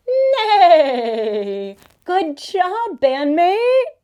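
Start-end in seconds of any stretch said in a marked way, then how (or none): 0.1-1.8 horse neigh. Pretend. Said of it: "The horse says".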